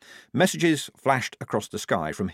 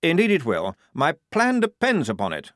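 higher, self-satisfied officer voice; proud; 7 semitones higher, 4 dB louder than usual. Acted. Lieutenant boasting of his plan to the squad, proudly. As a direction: puff up with pride in the plan. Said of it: "said Blouse proudly".

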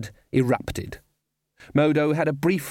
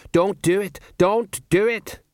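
high, raised cry of warning; alarmed plea; 8 semitones higher, 4 dB louder, slower than usual. A narrator's reading. Colon waving at the approaching light, in high-pitched alarm. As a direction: plead with the oncoming thing, slowing on the repeat.

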